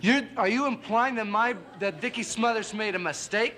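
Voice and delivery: drawn-out shocked disbelief; indignant disbelief. Acted. Indignant over his brother's mistake.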